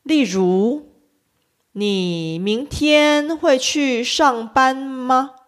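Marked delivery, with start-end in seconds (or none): 1.7-5.4 the final “吗” said high and short, first tone; slow, clear question ending in a high, level “吗”; 句尾“吗”读成短促的高平调. Shown as a demonstration. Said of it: "的声调发得比较高".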